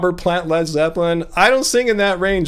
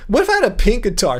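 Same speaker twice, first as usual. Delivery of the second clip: going high for emphasis; 2 semitones higher, faster than usual. Real, not acted. Streamer musing about a pink guitar, going high for emphasis. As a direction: pitch leaping briefly on the key word. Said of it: "See, I did that, uh, thing".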